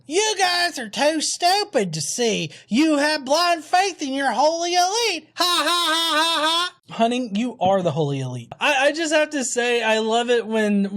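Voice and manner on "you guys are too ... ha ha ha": mocking commenter voice. Reading the troll's comment in a high mocking voice. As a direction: read it like a smug troll. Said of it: "That's the Jackal part".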